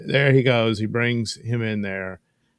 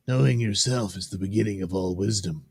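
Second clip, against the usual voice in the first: even comic-book reading in own register; measured character reading. Acted. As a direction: read it evenly, close to your own voice. Rereads it in the other voice.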